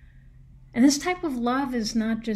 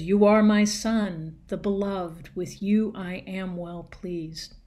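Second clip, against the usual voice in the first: deep booming voice of God; 5 dB louder than usual. Pretend. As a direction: boom it out like God speaking from heaven. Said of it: "a deep, male, booming, and declarative voice".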